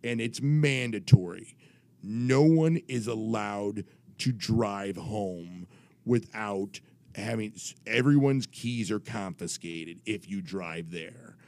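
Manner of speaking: slow, deliberate official, lightly imitated; measured mock-solemn rule-giving; authoritative commissioner. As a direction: spell out the mandatory rules. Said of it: "I'm doing his voice".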